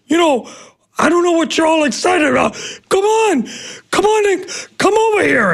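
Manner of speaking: high, fast taunting dare. Retold or imitated. Batter daring the pitcher to come over, high taunt. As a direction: goad him to come over.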